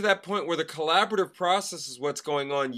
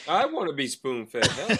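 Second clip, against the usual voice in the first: laughing mock confession; 3 semitones lower than usual. Jokingly claims it herself.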